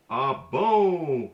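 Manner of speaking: "Ah, bon" with the vowel of "bon" pushed through the nose; nasal sound. Shown as a demonstration. Teacher demonstrating the nasal N, air through the nose. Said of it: "It's the nasal".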